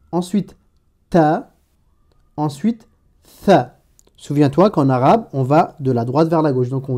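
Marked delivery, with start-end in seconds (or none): 1.1-1.5 « ta » isolé entre deux pauses; syllabe arabe. Shown as a demonstration. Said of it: "je vais prononcer la syllabe correspondante". 3.4-3.8 « tha » avec le th de think, plus fort; syllabe arabe. Shown as a demonstration. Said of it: "je vais prononcer la syllabe correspondante".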